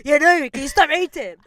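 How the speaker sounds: high, very loud irritated yell; imitated shouting. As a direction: mimic her shouting complaint. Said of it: "Why are you shouting for?".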